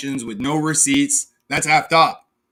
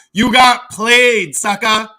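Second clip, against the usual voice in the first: gloating laugh; 2 semitones higher, 5 dB louder, slower than usual. Real, not acted.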